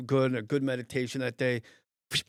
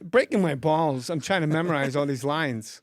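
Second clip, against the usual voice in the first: Christopher Walken; 4 dB louder than usual. Retold or imitated. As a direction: grumble as the harassed actor. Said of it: "you're gonna do Christopher Walken".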